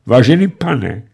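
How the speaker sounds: put-on slow, pleading old bandit; imploring. A narrator's reading. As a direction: beg for mercy. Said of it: "volal úpěnlivě stařičký bandita". (úpěnlivě prosit)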